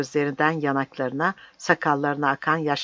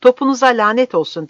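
building from firm refusal to loud, high denunciation; mounting public outcry; shouted protest; 5 semitones higher, 5 dB louder than usual. Acted. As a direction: hurl accusations, climbing to a shout. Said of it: "diye bağıracağım".

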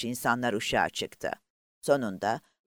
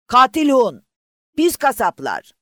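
very loud, high hateful scream; furious crowd shout; 11 semitones higher, 11 dB louder than usual. Acted. The lifeboat crowd screaming hatred at the warship, full voice. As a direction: roar the insults with full force. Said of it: "Bu çığlığa bir anda herkes bir ağızdan katıldı".

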